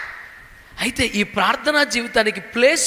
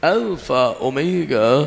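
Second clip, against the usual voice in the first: lower, very slow, pompous prayer voice; grand prayer words; 8 semitones lower, much slower than usual. Retold or imitated. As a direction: intone the fancy titles like showing off. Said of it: "మంచి మంచి పదాలు వాడి". (ఆడంబరంగా, చాలా నెమ్మదిగా, తక్కువ స్వరంతో ప్రార్థన)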